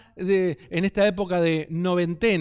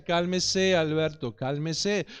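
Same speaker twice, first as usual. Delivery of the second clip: patient calming; 3 semitones lower, slower than usual. Retold or imitated. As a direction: soothe him gently, almost to yourself. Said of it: "el hombre le decía".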